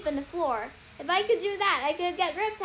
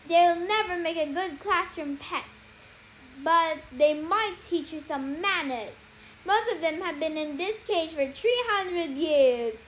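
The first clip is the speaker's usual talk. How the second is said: warning; 4 semitones higher, 4 dB louder than usual. Acted. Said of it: "she warned".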